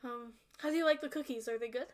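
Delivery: eager, fast troll baker; troll voice hoping for praise. Acted. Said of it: "That's my troll voice".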